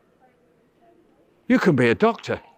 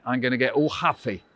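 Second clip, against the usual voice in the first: sulky mock huff, a little lower; huffy; 3 semitones lower, 4 dB quieter than usual. Shown as a demonstration. Host to child caller, mock-sulking huffily. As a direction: put on a childish sulk. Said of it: "That's me being huffy".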